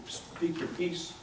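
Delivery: usual speaking voice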